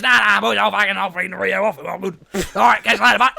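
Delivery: loud, high, breezy bloke voice; cheery delivery driver. Retold or imitated. Imitating the driver waving off help, loud and cheerful. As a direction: toss off a carefree goodbye.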